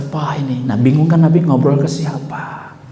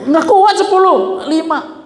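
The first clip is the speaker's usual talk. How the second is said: drawn-out protest; 12 semitones higher, slower than usual. Acted. Musa's verdict on ten.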